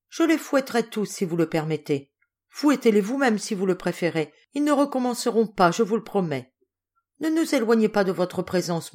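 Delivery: une touche de larmes feintes; larmoyant. Acted. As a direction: supplie l'oncle d'un ton pleurnichard léger. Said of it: "d'un ton larmoyant". (ton légèrement larmoyant)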